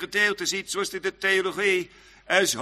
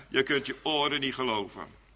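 ordinary talk, nothing marked

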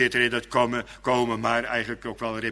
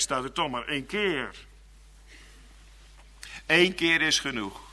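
ordinary delivery

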